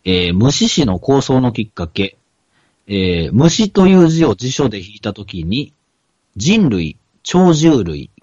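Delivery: measured read-aloud of a printed passage. Real, not acted. Podcaster reads the manga's origin story to his co-host, reading aloud. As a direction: read the entry out in even phrases.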